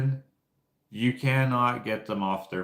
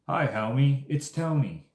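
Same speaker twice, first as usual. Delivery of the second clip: lightly imitated Southern greeting, pitched up; Southern accent; 5 semitones higher than usual. Fan echoing the sign seller's catchphrase in light Southern accent. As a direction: do a higher mock Southern hello. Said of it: "somewhat Southern accent".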